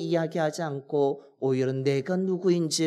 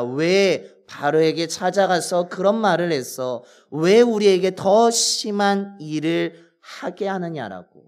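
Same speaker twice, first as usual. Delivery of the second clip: resentful complaint; 2 semitones higher than usual. Retold or imitated. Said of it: "하면서 모세를 원망하는 것입니다".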